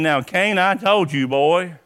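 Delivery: a hint of a stern father scolding; lightly voiced harsh God; mock stern God. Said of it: "He wasn't saying".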